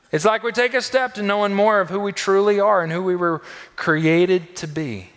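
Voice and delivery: loud, high, urgent preacher's call; full-force preaching. Acted. Pastor urging the congregation, preaching at full force. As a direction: drive the promise home to the church.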